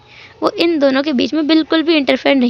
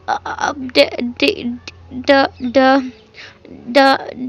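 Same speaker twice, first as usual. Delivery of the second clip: put-on halting, stuttering child, words stuck; nervous boy stammering to his father; much slower than usual. Shy son stammers, can't get words out.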